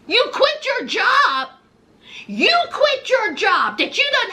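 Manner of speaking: high, incredulous mock scolding; outraged mama. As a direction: scold like a mother pushed past her limit. Mama's outraged reaction, acted.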